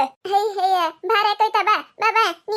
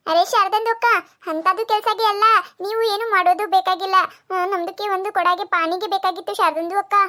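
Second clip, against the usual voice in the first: put-on Dakhni-accented Kannada. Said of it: "ಅದ್ರ ಭಾಷೆ ನಮಗ್ ಅರ್ಥ ಆಗುದಿಲ್ಲ".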